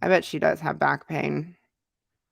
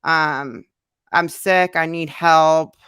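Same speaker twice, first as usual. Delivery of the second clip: louder, slowing into a sneering jab; mocking insult; 7 dB louder, slower than usual. A mock yell at the hater repeating their insults. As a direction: throw the insult back as they said it. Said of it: "cussed out by somebody saying".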